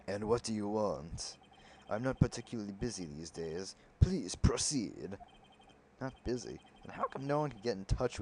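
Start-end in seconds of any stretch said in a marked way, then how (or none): 0.1-5.2 Marvin Grossberg voice. Acted. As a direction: draw it out like a grand old man. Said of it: "talk in that voice again".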